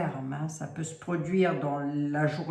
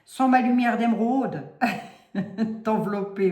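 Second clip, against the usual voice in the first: Lorraine accent; 3 semitones higher, 4 dB louder than usual. Shown as a demonstration. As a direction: play up your Lorraine accent on the line. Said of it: "je veux dire avec mon accent lorrain". (accent lorrain appuyé)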